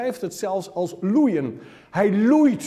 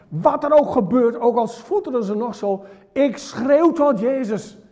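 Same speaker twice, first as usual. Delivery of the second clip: determined cry; 7 semitones higher, 5 dB louder than usual. Acted. Blind man vows to keep shouting.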